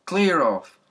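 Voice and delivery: loud call across the garden; yell. A narrator's reading. Policeman yelling at the boy with the pail. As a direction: shout to stop the boy. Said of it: "he yelled".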